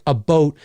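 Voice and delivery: "a boat" said with a pure long O; regional "a boat" for about. Shown as a demonstration. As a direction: round out the O in "boat". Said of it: "you'll kinda hear that a bit".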